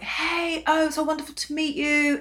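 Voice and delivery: lightly acted delight at meeting; imitated gracious greeting. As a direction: greet them sweetly, voice lifted. Voices actors greeting them.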